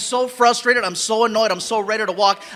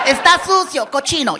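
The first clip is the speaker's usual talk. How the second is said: sharp Spanish scolding yell; mock scolding; 4 semitones higher, 3 dB louder than usual. Parent scolding kids in Spanish, loud and mock-angry.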